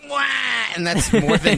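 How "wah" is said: loud cartoon villain yell; loud, drawn-out mock wail; Waluigi. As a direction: let out a stretched catchphrase shout. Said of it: "like, stilty and goes".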